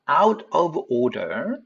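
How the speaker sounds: 'out of order' slowly, each word separate; over-careful wrong way. Shown as a demonstration. Teacher showing what not to do, slow unlinked 'out of order'. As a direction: pronounce 'out of order' stiffly, unlinked, t released. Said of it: "이렇게 발음 안 하겠죠".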